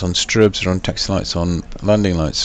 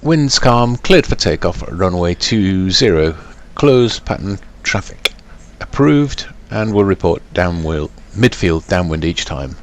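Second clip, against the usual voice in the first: pilot over the radio. Acted. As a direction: read back the clearance on the radio. Reads back tower clearance.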